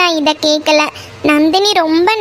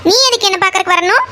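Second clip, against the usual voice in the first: high, fast repeated why why; agitated demand; 6 semitones higher, faster than usual. Acted. Meena alarmed the boy will come back tomorrow, high fast demand. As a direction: pounce on his words.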